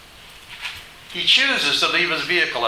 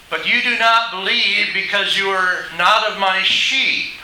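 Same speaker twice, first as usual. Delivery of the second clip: raised preacher's voice reading a verse; emphatic scripture reading; 5 semitones higher, 5 dB louder than usual. Acted. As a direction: declare the verse to the congregation. Reads the verse again.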